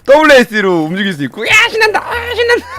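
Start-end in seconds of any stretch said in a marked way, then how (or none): 1.5-2.6 gleeful squeal. Pretend. Player cheering as the game gets going, gleeful squeal. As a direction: squeal it out like an overjoyed little creature.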